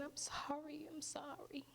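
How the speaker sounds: high, softened imitation of pitying passers-by; retold sympathy. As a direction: coo it gently, as strangers feeling sorry. Passers-by pitying her as she cries.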